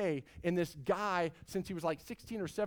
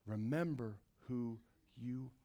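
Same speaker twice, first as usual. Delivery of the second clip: soft, lower, tender words from a father; gentle fatherly reminder; 5 semitones lower, 9 dB quieter than usual. Retold or imitated. The Heavenly Father speaking to his people, soft and tender. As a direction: say it quietly as a loving father would. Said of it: "Heavenly Father wants to say that".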